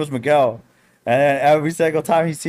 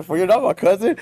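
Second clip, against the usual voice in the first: puzzled, slightly lifted rising question; confused kid; 3 semitones higher than usual. Retold or imitated. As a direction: imitate a baffled little kid. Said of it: "like, all confused".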